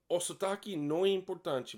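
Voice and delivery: ordinary talk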